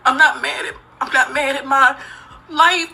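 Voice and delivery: ordinary talk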